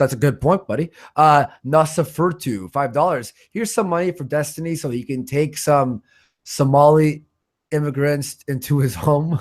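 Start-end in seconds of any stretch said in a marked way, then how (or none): none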